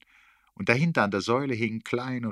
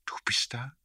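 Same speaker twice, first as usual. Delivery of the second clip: breathless question, pitched up; 6 semitones higher than usual. A narrator's reading. Startled narrator asks Erik, breathless. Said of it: "sagte ich atemlos".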